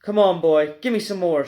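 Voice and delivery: a loud, eager yell. Acted. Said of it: "she yelled".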